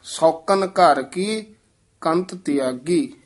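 ਸੌਕਨ said quickly and tightly as one word; ਸੌਕਨ ਛੇਤੀ ਤੇ ਕੱਸ ਕੇ; tight quick pronunciation. Shown as a demonstration. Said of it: "ਛੇਤੀ ਬੋਲਣਾ ਹੈ, ਕੱਸ ਕੇ ਉਚਾਰਨ".

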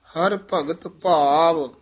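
slow, measured words held apart; slow careful recitation. Shown as a demonstration. Teacher demonstrating the slow reading to students. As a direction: say each word deliberately and slowly. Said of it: "ਇੱਥੇ ਠਮਕ ਜੀ ਲਾ ਕੇ ਫਿਰ ਬੋਲਣਾ".

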